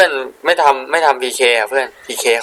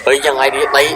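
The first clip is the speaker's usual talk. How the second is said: excited shout. Real, not acted. Live game play-by-play excitement.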